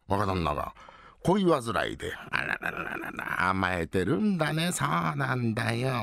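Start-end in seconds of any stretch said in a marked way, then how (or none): 2.3-3.5 breathy, slow ara-ra-ra; amused surprise. Acted. Wife's surprised exclamation.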